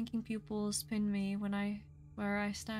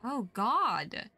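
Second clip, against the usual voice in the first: startled, loud oh God; scared gasp; 7 dB louder than usual. Real, not acted. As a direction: jump in fright. Reacting to scary monster on screen.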